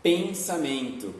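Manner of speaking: "pensamento" said slowly, syllable by syllable; slow demo. Shown as a demonstration. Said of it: "quando eu falo". ("pensamento" falado devagar, sílaba por sílaba)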